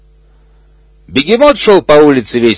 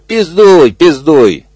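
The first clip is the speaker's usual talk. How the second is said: shouted after; 3 semitones higher, slower than usual. Acted. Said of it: "крикнул ему вдогонку крокодил".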